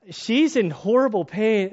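high, slow, loud blubbering; hammed-up tearful wail; mock weeping. Father overcome at the birth, mock weeping. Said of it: "I start weeping".

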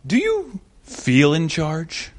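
slow, cool villain voice; unhurried, coolly challenging villain impression; Bane. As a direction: put on a slow, menacing movie-villain voice. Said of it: "with his kind of cool Bane voice".

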